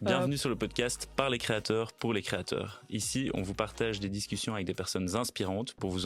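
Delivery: smooth announcer intro; podcast intro read. Acted. Scene: host opens the podcast for listeners, announcer read. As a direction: welcome listeners like a show opener.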